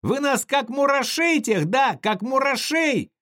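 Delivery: put-on a hurt boy lashing out; angry tearful shout. Kolka keeps shouting at crowd.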